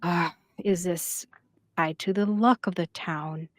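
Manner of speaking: hushed, halting murmur of worried parents; worried whisper. Acted. Parents wondering about a bad omen, hushed worried whisper. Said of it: "Some of the parents whisper".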